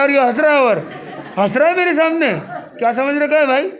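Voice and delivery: loud, high indignant scolding; angry father. Retold or imitated. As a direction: play the father who feels mocked. Father angry at laughing child. (गुस्साए पिता की ऊँची डाँट)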